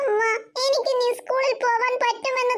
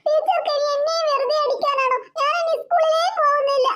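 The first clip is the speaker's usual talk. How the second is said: put-on higher child's voice, upset; sulky little girl; 5 semitones higher than usual. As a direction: play a small girl refusing school. Child Devu refuses school. (പിണങ്ങിയ കൊച്ചുകുട്ടിയുടെ ശബ്ദം)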